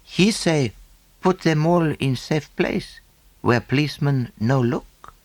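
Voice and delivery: lightly voiced pidgin speaker; a hint of a foreign servant; Chinaman's voice. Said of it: "answered the other, who was a Chinaman".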